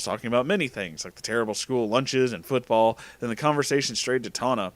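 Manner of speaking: usual speaking voice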